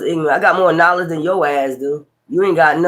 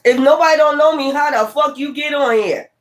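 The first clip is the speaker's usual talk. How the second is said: much higher, exasperated retort; pitched way up in disbelief; high-pitched incredulity; 8 semitones higher than usual. Real, not acted. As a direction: throw it back in a high, incredulous voice. Incredulous repeat of retort to commenter.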